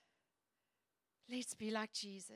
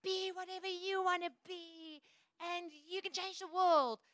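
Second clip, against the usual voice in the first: mock worldly slogan; 7 semitones higher, 3 dB louder than usual. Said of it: "the world's call is like".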